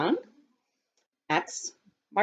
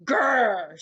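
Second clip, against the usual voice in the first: rhino growl. Acted. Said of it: "said the rhinoceros".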